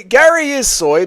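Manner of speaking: Gary is soy high and drawn out; mocking echo. Echoes chat in high slow voice.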